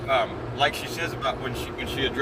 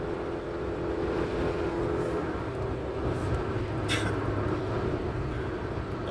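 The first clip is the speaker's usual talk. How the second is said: long, quiet laugh; 9 semitones lower, 5 dB quieter than usual. Real, not acted. Cracks up after "no problem.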